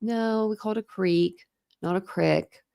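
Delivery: lightly voiced mom, measured correction; slow, mild correction, imitating a mother; gently correcting mom. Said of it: "not in a mean way by any means".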